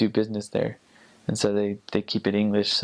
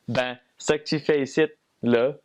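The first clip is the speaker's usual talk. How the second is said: Quebecois French; 3 semitones higher than usual. Shown as a demonstration. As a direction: show off a Quebecois sentence. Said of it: "of a Quebecois, uh, sentence".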